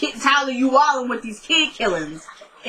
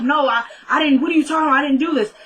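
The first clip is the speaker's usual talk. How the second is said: higher-pitched acted protest; retold frantic denial, pitched up; fighting the cop; 5 semitones higher, faster than usual. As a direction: imitate resisting an arrest, denying it. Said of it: "Kelly kinda fighting the cop".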